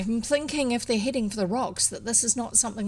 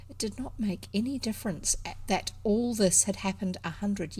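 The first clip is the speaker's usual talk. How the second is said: measured, feeling storybook narration; story narration; 2 semitones higher than usual. A narrator's reading. Reader telling of Elfrida dreading the wreck, measured narration. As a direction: linger on the weighty words as you read aloud.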